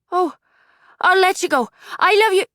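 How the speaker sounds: high, loud, tender goodbye; loving mother. Acted. Mother saying goodbye on the phone, high and loving. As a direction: send him off with love.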